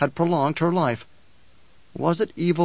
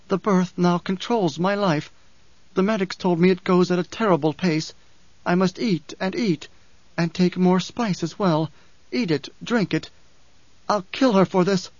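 higher, urgent and vengeful voice; Chani, furious; 4 semitones higher than usual. Acted. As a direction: press it out, driven and angry. Chani character voice.

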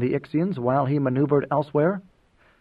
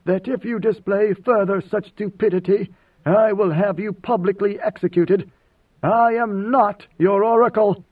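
cold threat, higher and building louder; icy disdain; 6 semitones higher, 5 dB louder than usual. A narrator's reading. God Emperor threatens envoy with execution, icily disdainful. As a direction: warn them with mounting, disdainful force. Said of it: "speaking in his icy voice of disdain".

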